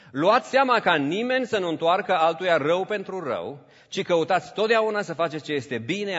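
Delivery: loud, ringing Bible reading; scripture reading. Acted. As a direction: proclaim the verse to the church. Reads scripture aloud.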